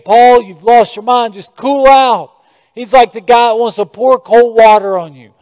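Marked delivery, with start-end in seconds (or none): 0.0-2.3 Festus dismissing Paul. Retold or imitated. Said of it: "he's saying".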